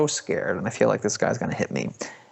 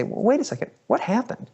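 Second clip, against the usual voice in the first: surprised question; 12 semitones higher than usual. Retold or imitated. Stopping wife in lobby.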